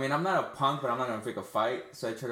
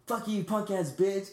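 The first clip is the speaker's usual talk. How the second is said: high, slow mock yell; drawn-out angry retort, pitched up; retold pissed-off yell; 9 semitones higher, slower than usual. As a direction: re-enact cursing back at a heckler. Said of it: "I'm fucking pissed".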